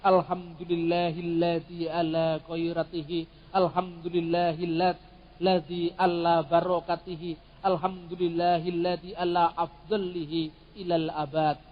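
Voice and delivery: Arab Christian grace recited slowly; Arabic prayer recitation. Shown as a demonstration. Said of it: "orang-orang Kristen Arab mengucapkan".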